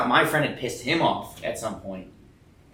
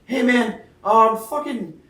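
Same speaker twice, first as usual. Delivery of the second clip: eager hello; 10 semitones higher, 6 dB louder, much slower than usual. Retold or imitated. Retold self asking for a job.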